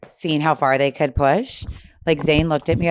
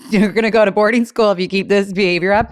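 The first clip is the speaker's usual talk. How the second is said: higher mock-stern mom warning; mock threat; 5 semitones higher, 5 dB louder than usual. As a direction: lay down the law in play. Acting out threatening her daughter.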